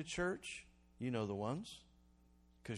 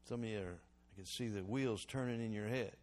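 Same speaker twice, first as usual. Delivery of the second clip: usual speaking voice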